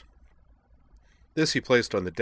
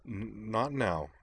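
soft, halting stammer on first sounds; a gentle nervous stammer; stammering girl; 5 dB quieter, much slower than usual. Acted. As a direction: stumble shyly over each start. Kate's stammering dialogue.

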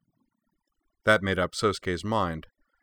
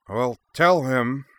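put-on slow, higher, louder bleary Centauri accent; 5 semitones higher, 5 dB louder, slower than usual. A narrator's reading. Vice consul to the bodyguard, in a slow bleary Centauri accent. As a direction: drawl it out like a drunken Centauri noble. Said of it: "said the elder in blearily accented standard".

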